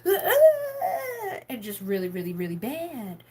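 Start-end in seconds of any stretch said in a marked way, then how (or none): 0.1-1.4 high, loud wailing sobs; hammed-up crying wail; mock sobbing. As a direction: imitate falling apart in tears. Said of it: "would have let that been like".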